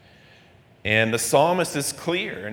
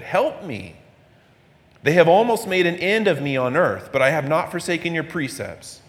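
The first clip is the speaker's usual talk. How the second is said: scripture reading. Acted. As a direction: read the psalm as a plea. Reading the psalm passage.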